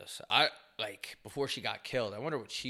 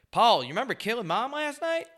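high, mocking father voice, louder; mock dad voice; 10 semitones higher, 3 dB louder than usual. A dad mocking his son over the murder, high mock voice. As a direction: ham up a dad who tricks his son. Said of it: "wake up and be like".

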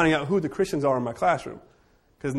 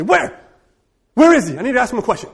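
much higher and louder, playfully looking around; mock eager search; 9 semitones higher, 9 dB louder, faster than usual. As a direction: tease her by pretending to hunt for him. Teacher teases student, mock search.

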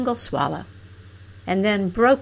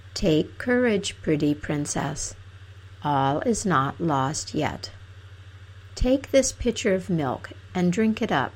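talking oak tree. Acted.

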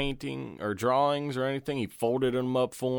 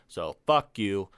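ordinary talk

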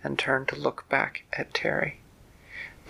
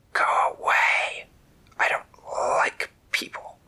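grumpy hissing snake; slower than usual. Acted. Poisonous snake shooing Terry away, in a slow harsh hiss. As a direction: spit it out like a cranky viper.

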